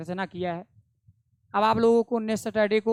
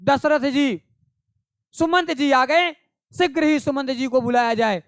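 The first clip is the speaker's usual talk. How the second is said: louder, higher call announcing an arrival; raised announcing call; retold call out; 4 semitones higher, 4 dB louder than usual. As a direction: call out to the king across the palace. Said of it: "चिल्ला के बोले".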